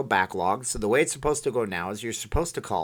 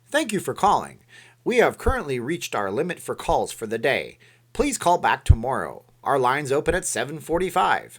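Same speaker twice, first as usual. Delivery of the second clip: a hint of a radio announcer; 3 semitones higher, 4 dB louder than usual. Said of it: "That's my radio announcer voice".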